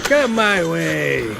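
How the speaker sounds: slowly luring an enemy closer; taunting invitation. Real, not acted. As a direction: coax the enemy in, stretching every word.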